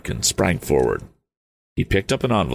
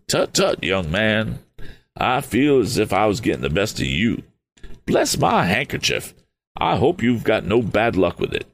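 put-on higher, quick fussy old gentleman; a fluttery eccentric, relieved; eccentric Mr Damon; 4 semitones higher than usual. Mr Damon relieved to find them safe, higher and quick.

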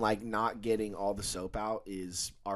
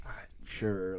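mumbled whisper; 3 semitones lower, 6 dB quieter than usual. Retold or imitated. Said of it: "I have no fucking clue what he says".

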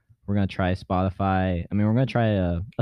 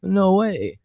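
surprised; 10 semitones higher, much slower than usual. Retold or imitated. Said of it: "I always think".

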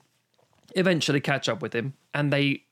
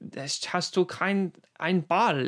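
slow, lightly voiced creepy Peter Lorre; a hint of Lorre's eerie softness; slow, mild imitation of a creepy film villain; Peter Lorre's high voice; 3 semitones higher, much slower than usual. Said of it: "he talks so high".

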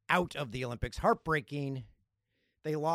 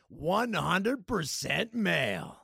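title announcement; much slower than usual. Pretend. Says it as new podcast name.

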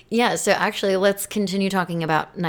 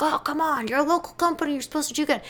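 high whiny mock complaint; 9 semitones higher than usual. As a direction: whine it like an entitled critic. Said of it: "everyone's like".

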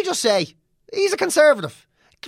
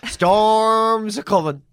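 mock ominous warning; 2 semitones higher, slower than usual. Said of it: "You kinda think".

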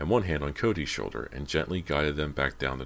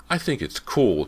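chiming in; 9 semitones higher, 7 dB louder than usual. A narrator's reading. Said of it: "James chimed in".

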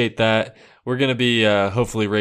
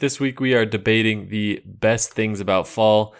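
radio host; 3 dB louder than usual. Acted. Radio show intro.

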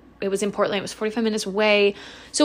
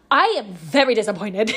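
stern mom line breaking into a laugh; mom email, laughing. Retold or imitated. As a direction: try to sound like a stern mom but crack up. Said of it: "like a mom does".

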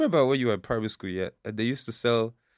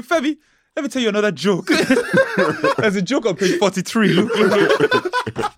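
pestering schoolkid; 5 semitones higher than usual. Retold or imitated. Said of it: "then they'll come up to you".

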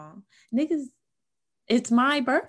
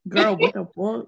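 slow, drawn-out disbelief; mock outraged shock; 6 dB louder, slower than usual. Reacting to friend in braids, slow mock outrage. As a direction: stretch it out in disbelief.

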